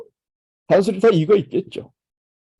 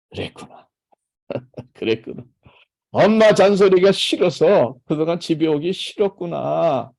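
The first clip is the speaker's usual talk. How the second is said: put-on gently mirror the child's feelings back; empathetic echo; 4 dB louder than usual. Shown as a demonstration. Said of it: "이게 메아리 공감 반응이에요".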